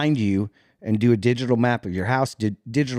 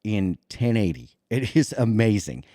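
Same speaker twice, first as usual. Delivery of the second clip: sarcastic. Pretend. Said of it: "You're being sarcastic".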